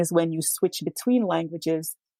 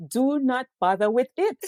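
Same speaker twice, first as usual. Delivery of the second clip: eye-rolling dismissal; 6 semitones higher than usual. Retold or imitated. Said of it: "rolled our eyes at him like".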